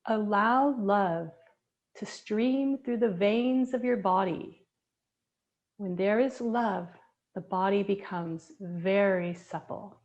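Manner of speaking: slow, measured poem recital with words drawn out; poem reading. Acted. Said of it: "I'm gonna read a poem".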